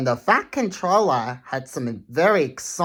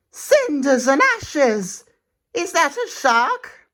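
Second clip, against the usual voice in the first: scared Thomas; 11 semitones higher than usual. Acted. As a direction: gasp it out, frightened of the shark. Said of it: "Thomas shivered".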